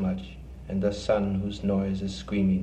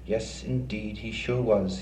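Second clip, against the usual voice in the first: nasal voice. Acted. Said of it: "he said through his nose".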